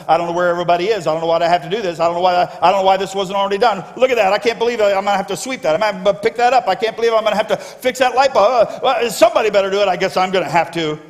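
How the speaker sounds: mock grumbling churchgoer, fast and put-out; grumpy volunteer. Preacher imitates grumpy people doing ministry, huffy. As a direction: huff through the chores like a sulky helper.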